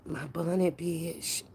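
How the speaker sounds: normal talking voice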